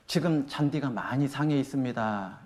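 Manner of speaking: soft, slow polite notice; gentle explanation. Shown as a demonstration. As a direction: say it calmly, giving the reason. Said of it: "요렇게 말하는 거예요".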